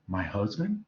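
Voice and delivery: mildly disbelieving question; a touch of incredulity, rising at the end; disbelief. Acted. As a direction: read it as a puzzled question, lightly acted. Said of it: "in a state of disbelief".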